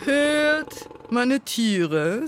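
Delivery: long, high proclaiming call; calling lion king. A narrator's reading. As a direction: summon the whole crowd, drawing out the first word. Lion calls the animals once more.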